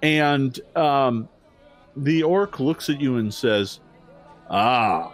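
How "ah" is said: slightly lower, slow, measured orc guard; lightly voiced formal orc. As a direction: speak as a wary but courteous gatekeeper.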